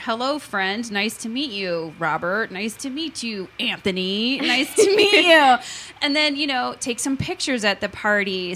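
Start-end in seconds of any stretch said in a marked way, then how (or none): 0.0-5.6 welcoming host mom. Shown as a demonstration. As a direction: greet each kid at the door warmly. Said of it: "greet them at the door".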